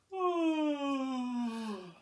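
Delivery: long, high sigh falling away; contented post-nap stretch sound; waking stretch groan. Acted.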